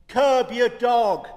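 loud, slow barked command; gruff boom. Retold or imitated. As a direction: boom it like a grumpy neighbour. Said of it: "a gruff voice boomed".

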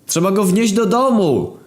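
high put-on voice; high, silly character voice; Gruby's voice. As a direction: play the dim friend in a high voice.

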